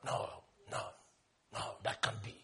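very soft, spaced-out refusals; barely voiced, pausing between each no; hushed disbelief. Objector hearing God visits a prostitute, hushed disbelief.

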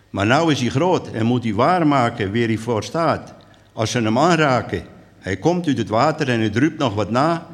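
measured, lilting poem reading; unhurried verse delivery; poem recital. Acted. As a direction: recite it line by line with deliberate pauses.

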